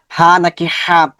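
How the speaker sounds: "হা" set against a second, differently articulated "হা"; teacher carefully sounding out each "হা"; careful articulation. Shown as a demonstration. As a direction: demonstrate two distinct Arabic h sounds in "হা নাকি হা". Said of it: "focus রাখবো উচ্চারণের".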